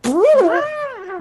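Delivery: high imitated horn blare; loud, high mouth-made trombone wail; comedic trombone. Game master mimics the band's comedic horn, hammed-up.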